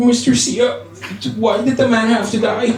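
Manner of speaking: high, tearful schoolboy imitation; mock crying child. Crying student asks teacher about Hangman, tearful mock voice. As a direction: sob it out like an upset pupil, hammed up. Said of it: "So he started crying".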